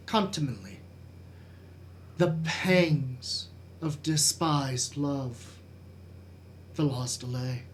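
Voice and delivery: measured Shakespearean recitation with weighty pauses; dramatic soliloquy. Acted. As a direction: brood through Hamlet's soliloquy, letting phrases fall away.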